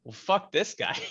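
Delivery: lightly voiced impression of a fellow adventurer; Zarius. Player mimics another character after peeking out, lightly voiced impression. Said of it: "in Zarius's voice".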